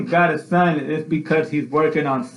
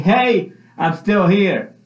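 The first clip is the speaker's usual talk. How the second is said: calling out; 3 semitones higher, slower than usual. Retold or imitated. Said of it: "God is calling out saying".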